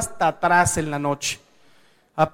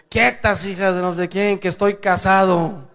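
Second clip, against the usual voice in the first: lightly voiced drunk shouting stop; drunk husband; 4 dB louder than usual. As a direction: drunk husband fending off wife and mother, mock indignant. Drunk husband protesting while undressed.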